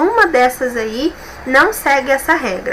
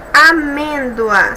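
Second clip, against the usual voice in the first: a-MÊN-doa, slow on MÊN; stressed syllable drawn out; 2 semitones higher, much slower than usual. Shown as a demonstration. Teacher presenting amêndoa to check, stressed syllable drawn out. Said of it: "sílaba mais forte a penúltima".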